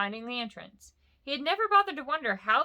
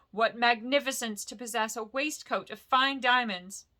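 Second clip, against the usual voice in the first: flattering hobbit; 2 semitones higher than usual. Acted. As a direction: lay the praise on thick. Bilbo flattering.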